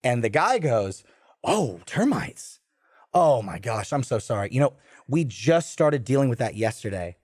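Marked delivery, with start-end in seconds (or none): 1.4-7.2 a hint of a fake-sorry hotel clerk; apologetic clerk. Hotel clerk apologizing to the guest about termites, mock-sorry.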